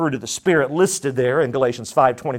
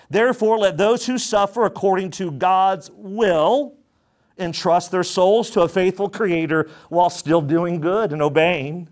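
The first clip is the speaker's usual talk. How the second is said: raised, measured preaching of the verse; scripture reading; 3 semitones higher than usual. Acted. Pastor reading scripture to the church, raised and measured. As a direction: read the Word out to the congregation.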